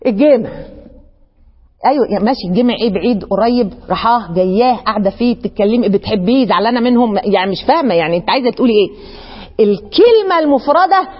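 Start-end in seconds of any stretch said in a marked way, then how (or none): 1.9-8.9 lower, puzzled questions of a confused listener. Pretend. Confused friend questioning a lone word, low and puzzled. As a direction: play the baffled friend asking what she means.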